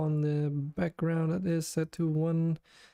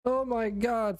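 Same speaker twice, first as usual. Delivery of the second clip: excited; 7 semitones higher, slower than usual. Real, not acted. Delighted the layout works.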